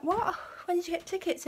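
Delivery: a sudden startled what; startled question. Retold or imitated. Dad hearing about tickets, startled high question.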